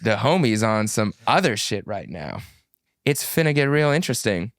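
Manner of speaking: low, measured reading voice; enunciated low read-aloud voice. Shown as a demonstration. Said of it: "It's a reading voice".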